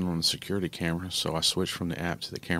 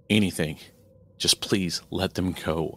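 louder, slow begging; desperate plea; 4 dB louder than usual. Acted. Mother begging the demon to free her girls, desperate plea. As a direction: beg for her daughters. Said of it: "I pleaded".

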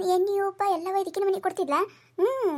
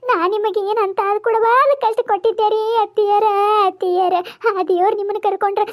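louder hammed-up lament for the mother-in-law; loud fake wailing; 4 dB louder than usual. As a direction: wail for show, loud and theatrical. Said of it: "ನಾ ಹೆಂಗ್ ಚಂದ ಅಳ್ತೀನಿ".

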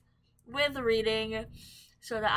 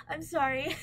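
higher-pitched teary apology with a laugh; tearful; 4 semitones higher than usual. Real, not acted. Vlogger apologising to viewers for crying again, tearful. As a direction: laugh weakly through tears. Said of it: "I'm crying again".

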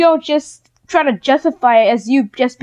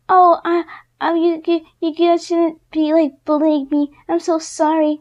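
lightly voiced whiny girl, higher, mocking; mocking imitation; 4 semitones higher than usual. A vlogger mocks a bully's fake apology, whiny and sneering. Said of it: "She said".

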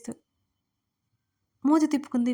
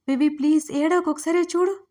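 higher, louder anxious begging; pleading; 4 semitones higher, 5 dB louder than usual. A narrator's reading. Vishwa begs sobbing Vivi to look at him, higher anxious plea. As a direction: beg her to stop crying, rising with worry. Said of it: "Vishwa బ్రతిమాలుతున్నాడు".

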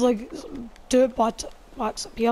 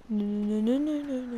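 ordinary talk

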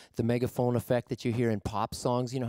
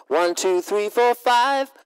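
loud, higher, distorted count; amp distortion; 9 semitones higher, 8 dB louder, much slower than usual. Shown as a demonstration. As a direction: narrow filtered amp sound. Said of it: "combinations of narrow filtering and distortion".

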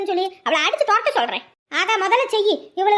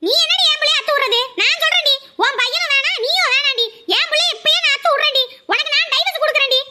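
angry scolding; 3 semitones higher than usual. Acted. Mother yelling at in-law on phone.

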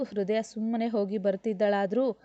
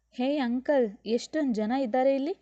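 higher, wide-eyed question; a small boy amazed at the crowd; child gasping at all the wedding guests; surprised child; 4 semitones higher than usual. Acted. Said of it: "ಆಶ್ಚರ್ಯವಾಗಿ ಕೇಳಿದ".

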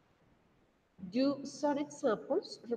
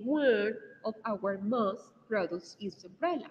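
slow model sentence; 3 dB louder, slower than usual. Shown as a demonstration. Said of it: "we say".

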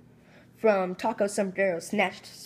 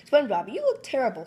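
exclaiming; 4 semitones higher, 4 dB louder than usual. Acted. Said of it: "Sandy exclaimed".

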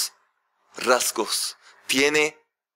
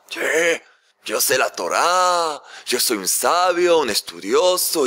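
slow, self-important boast; a lightly voiced arrogant suitor, slow and smug; pompous scholar. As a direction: puff yourself up like a proud know-it-all. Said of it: "iba así con el libro".

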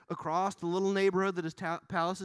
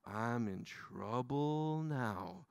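much softer and lower, slow dread; hushed worried David; 7 semitones lower, 8 dB quieter, much slower than usual. Retold or imitated. Preacher voicing David caught out, softer and lower. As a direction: mutter it like you're caught. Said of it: "David goes".

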